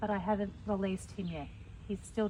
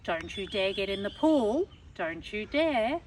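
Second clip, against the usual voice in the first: firm, louder warning, the last words drawn out slow; stern warning to a child; 4 dB louder, slower than usual. Shown as a demonstration. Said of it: "if I was saying it to a child".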